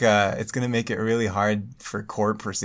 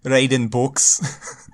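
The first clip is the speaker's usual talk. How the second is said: bad Irish accent; 2 semitones higher, 4 dB louder, much slower than usual. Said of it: "Anytime I wanna do an Irish accent".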